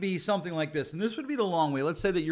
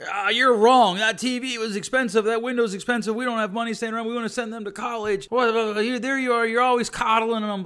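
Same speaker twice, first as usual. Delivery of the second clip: defensive, louder and higher, arguing back; bad listening demo; 5 semitones higher, 7 dB louder than usual. Shown as a demonstration. Husband shoots down his wife's complaint, defensive and loud. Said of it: "That's not good listening".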